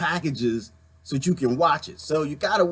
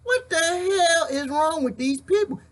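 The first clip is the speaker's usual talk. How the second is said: hillbilly voice; 5 semitones higher than usual. Acted. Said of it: "I'm gonna call him Jeffro".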